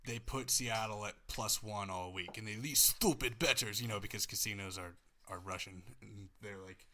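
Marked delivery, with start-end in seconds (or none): 2.6-6.9 put-on Russian accent. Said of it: "That's the worst Russian accent I've ever heard".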